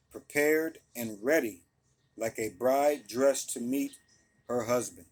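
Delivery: scripture reading. Acted. Preacher reading Revelation to his listeners, steady and deliberate. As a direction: read it out like a pulpit reading. Reads the Good News version.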